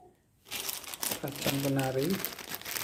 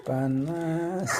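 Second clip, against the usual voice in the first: laughing; 4 semitones higher than usual. Real, not acted. Laughing at the heat.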